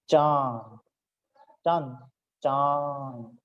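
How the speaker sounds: चांद with a long, held nasal aan; drawn-out nasal vowel. Shown as a demonstration. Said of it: "यहाँ लंबा खींच रहे हैं". (चांद की अनुनासिक ध्वनि लंबी खींचकर)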